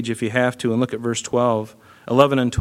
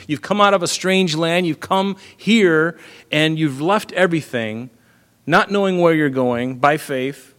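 higher, fervent preaching; rising fervor; 4 semitones higher than usual. Real, not acted. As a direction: lift the voice with passion, slowing at "here". Preacher building, pitch high.

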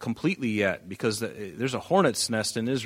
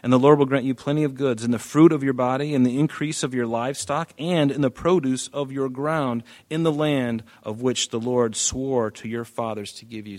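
fast, slightly raised reread of the blessings; quick emphatic re-reading of the promise; brisk rereading; 2 semitones higher, 3 dB louder than usual. Shown as a demonstration. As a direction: run through the list of blessings quickly. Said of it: "Notice, physical blessings".

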